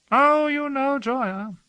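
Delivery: high, slow, breezy brush-off; Hawke, airy and light; lightly. A narrator's reading. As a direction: wave it off as nothing. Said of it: "Hawke said lightly".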